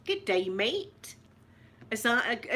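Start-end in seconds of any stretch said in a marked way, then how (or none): 0.1-1.2 attempted Australian accent, drawn out slowly. Shown as a demonstration. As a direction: have a go at a slow Australian greeting. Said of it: "try and do an Australian accent".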